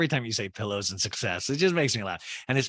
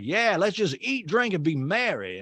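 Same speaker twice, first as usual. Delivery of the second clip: sing-song fake cheer, lightly voiced; imitating Whitney; 8 semitones higher than usual. Host mimics Whitney calming the table, high mock cheer. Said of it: "And Whitney's like".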